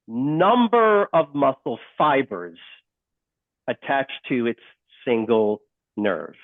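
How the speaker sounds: slow, deliberate, word by word; careful slow restatement; slowly. Shown as a demonstration. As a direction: lay each word down slowly for note-takers. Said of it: "say it again slowly".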